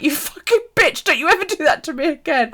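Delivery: high-pitched re-enacted telling-off; mock scolding. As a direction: imitate a shaken friend giving an earful. Friend's angry scolding acted out.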